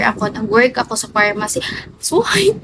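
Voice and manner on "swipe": excited call. Real, not acted. Calling out to a viewer.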